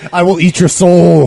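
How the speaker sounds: hammed-up soul-eating monster; crazy voice. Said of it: "Try to act crazy when you read them".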